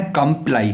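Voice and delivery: "कंप्लाई" with a short "kum" first syllable; correct pronunciation. Shown as a demonstration. Teacher giving learners the right reading, correctly pronounced "कंप्लाई" as kum-plai. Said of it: "इसका जो सही उच्चारण है".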